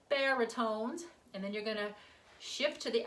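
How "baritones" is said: lightly nerdy chant; slightly nerdy sung-out delivery. Shown as a demonstration. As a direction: give it a hint of nerd. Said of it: "who said nerdy, kind of a nerdy".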